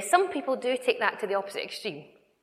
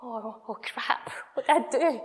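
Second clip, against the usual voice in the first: mock panic; 2 semitones higher than usual. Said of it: "you're just like".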